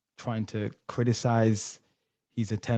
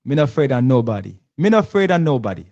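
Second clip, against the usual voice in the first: louder, faster Jamaican patois, rising on the repeat; Jamaican patois impression; 3 semitones higher, 7 dB louder, faster than usual. Host hamming up the Prime Minister's defiant line, loud Jamaican patois. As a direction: belt it out like Andrew Holness in Jamaican patois. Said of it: "Okay, I'm getting it".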